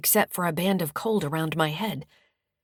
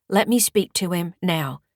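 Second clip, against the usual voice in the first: a lightly gruff demanding woman, a bit louder; gruff caller; 5 dB louder than usual. Acted. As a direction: push the words out with a touch of gruffness. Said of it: "She said in a gruff voice".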